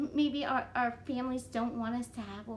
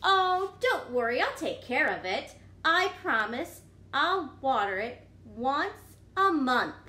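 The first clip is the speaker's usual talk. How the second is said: louder, slow promising pigeon; pleading pigeon; 5 dB louder than usual. Acted. Pigeon promising to care for a puppy, earnestly loud.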